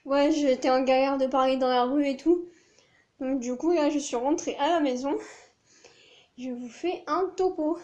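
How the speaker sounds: gasping lightly between phrases; out of breath. Real, not acted. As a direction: still winded, breathing hard. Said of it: "Je reprends mon souffle d'abord".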